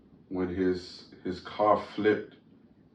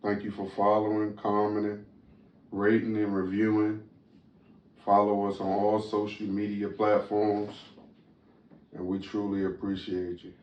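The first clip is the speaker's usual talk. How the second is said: newscaster voice. Acted. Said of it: "Is that your newscaster voice".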